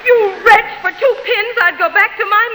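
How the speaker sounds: angry cry. Acted. Wife crying out angrily at her husband. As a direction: lash out at him.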